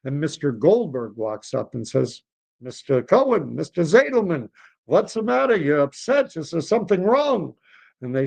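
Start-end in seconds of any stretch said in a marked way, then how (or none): 2.6-7.5 put-on lightly high concerned old man. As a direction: ask like a worried old friend. Friend asks what's wrong.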